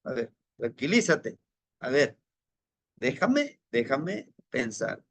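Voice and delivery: low, soothing and unhurried; calming the inner voice. Retold or imitated. Speaker talking his inner Yao down, gently calming. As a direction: ease him down like a worried friend. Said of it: "Y ya le nombramos".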